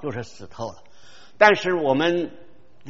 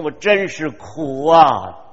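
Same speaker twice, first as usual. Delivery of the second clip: anguished cry. Retold or imitated. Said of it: "保罗说：".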